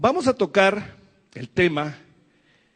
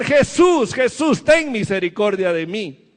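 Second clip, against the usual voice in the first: pleading shout; 2 semitones higher, 3 dB louder than usual. Acted. Blind man crying out to Jesus on the road, shouting. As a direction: beg Jesus for mercy at full voice. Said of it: "empezaba a gritar".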